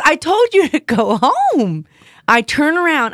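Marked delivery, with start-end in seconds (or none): 0.1-1.9 stern boss. Retold or imitated. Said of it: "He says".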